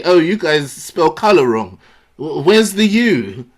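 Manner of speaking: a mock snooty Brit correcting the crowd; uppity Brit. Comic mocking the American crowd, slow snooty sneer. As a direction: sneer down at them, slow and precise. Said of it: "uppity Negro come up and say".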